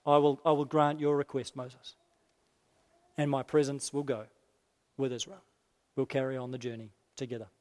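low, hushed divine assurance; quiet, settled promise; God relenting. Acted. Voicing God granting the request.

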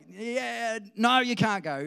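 loud, high yes snapping into a refusal; hammed-up ruler changing his mind; flip-flopping Pharaoh. Acts Pharaoh wavering, then refusing.

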